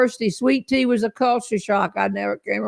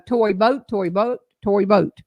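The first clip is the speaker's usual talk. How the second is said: tongue twister try. Shown as a demonstration. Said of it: "All right, here I go".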